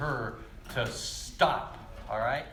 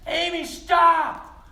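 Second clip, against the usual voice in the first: long drawn-out shouted warning, high and loud; yell; 13 semitones higher, 9 dB louder, much slower than usual. Retold or imitated. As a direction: stretch the shout out slowly to stop her. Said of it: "And he yelled".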